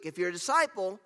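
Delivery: real voice cracking mid-phrase. Real, not acted. Preacher urging disciples to study, voice cracking. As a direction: let the voice crack slightly. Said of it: "if you heard the voice crack there".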